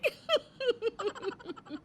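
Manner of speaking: a high, pleased cackle to herself; high gleeful cackle. Acted. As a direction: laugh high and gleeful at getting away with it. Koyal laughs at herself. (ऊँची, खुश ठहाकेदार हँसी)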